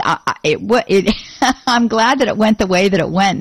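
ordinary talk, nothing marked

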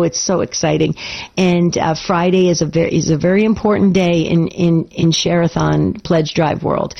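hoarse, strained from overuse; raspy voice. Real, not acted. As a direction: speak through a worn, raspy throat. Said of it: "kind of a raspy voice of mine".

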